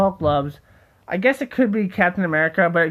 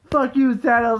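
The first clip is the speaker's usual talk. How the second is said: higher and louder, a furious Hulk shout; angry Hulk yell; 6 semitones higher, 3 dB louder than usual. Pretend. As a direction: roar it at Thanos like the raging Hulk. Hulk so mad at Thanos.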